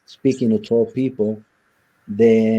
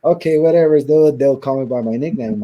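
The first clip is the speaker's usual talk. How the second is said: mock dismissive; 4 semitones higher, 5 dB louder than usual. Mimicking dismissive fellow inmates.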